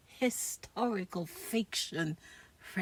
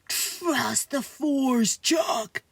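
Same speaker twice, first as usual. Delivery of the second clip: Ulysses S. Grant voice; 5 dB louder, much slower than usual. Acted. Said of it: "heard the voice of General Ulysses S. Grant".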